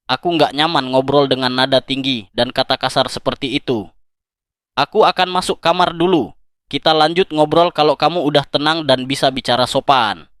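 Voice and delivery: calm and even, no rise; steady voice that stays composed; low, level tone. Shown as a demonstration. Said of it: "Bicara dengan nada rendah dan datar".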